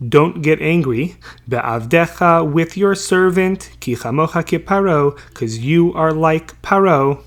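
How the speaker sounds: unhurried, measured recitation of the verse; slow verse reading. Acted. Teacher reading Yehuda's words to Yosef to the class, slow and measured. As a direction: give each phrase its own weight. Reads Yehuda's plea from text.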